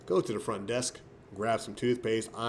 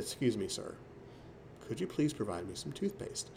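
softer, courteous, neatly spoken request; polite inner voice; 7 dB quieter than usual. Retold or imitated. To the clerk, the polite request in his head, soft and courteous. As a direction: ask the desk clerk kindly for toothpaste, politely and softly. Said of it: "in my head, I said".

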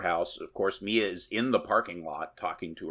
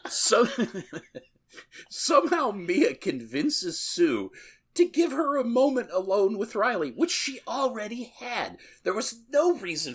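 laughing; 13 semitones higher, 3 dB louder than usual. Real, not acted. Still laughing after the joke.

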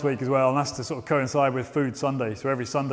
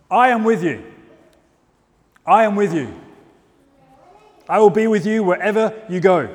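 God's promise; 3 semitones higher, 4 dB louder than usual. Acted. Voicing God's promise in sermon.

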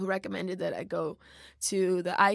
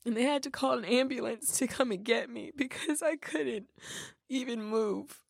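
teary-eyed; 3 semitones higher than usual. Real, not acted. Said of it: "sorry, I'm getting teary-eyed".

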